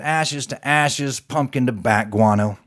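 a hint of a graveside preacher; mock solemn farewell; solemn eulogy. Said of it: "and he said".

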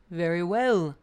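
loud, firm agreement; resolved Brahmin. A narrator's reading. Brahmin accepting the tiger's terms, resolute. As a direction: agree out clearly.

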